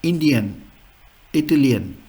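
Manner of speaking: "Indian, Italian" with a clear ee for i; pronuncia tedesca. Shown as a demonstration. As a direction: say "Indian, Italian" as German words. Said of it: "So in German".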